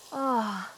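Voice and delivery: low, falling sigh; contented sigh. Acted. Snake girl warming up on a friend, contented sigh. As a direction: sink into the warmth with an "ah".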